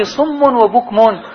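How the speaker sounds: صم وبكم drawn out slowly; صم وبكم said slowly and deliberately; slow emphasis. Shown as a demonstration. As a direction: stretch صم وبكم. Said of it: "quotes words slowly".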